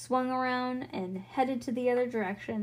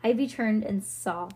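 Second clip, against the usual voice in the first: usual speaking voice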